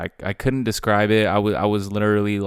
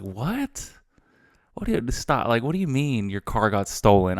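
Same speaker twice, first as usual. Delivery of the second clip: lightly voiced dad, thrown by the news; incredulous dad. Dad hearing on the phone that his son's car was stolen, incredulous. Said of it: "He was just like".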